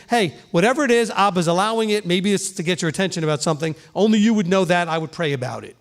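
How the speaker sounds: pastor showing the kind way to answer; gentle. Shown as a demonstration. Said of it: "See how gentle that is?".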